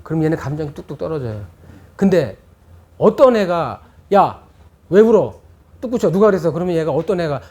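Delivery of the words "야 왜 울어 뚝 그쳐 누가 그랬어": louder interrogating scold; mock yelling parent. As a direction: grill the crying child. Parent yelling at crying child. (우는 아이를 다그치는 부모 흉내)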